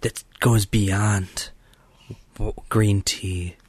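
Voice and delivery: hushed mystery whisper. Pretend. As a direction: whisper it like a secret legend. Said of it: "Why are you whispering?".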